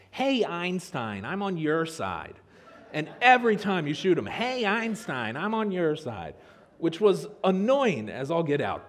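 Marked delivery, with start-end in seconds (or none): 0.1-2.4 slow, whiny game sidekick; super annoying voice. Retold or imitated. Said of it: "he says in a super annoying voice". 4.3-6.4 slow, whiny game sidekick; super annoying voice. Retold or imitated. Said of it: "he says in a super annoying voice".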